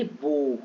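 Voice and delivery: बो with a pure long "o"; pronounced "bo". Shown as a demonstration. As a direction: say बो low, one round "o" and no "au". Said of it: "इसको बाऊ नहीं पढ़ेंगे".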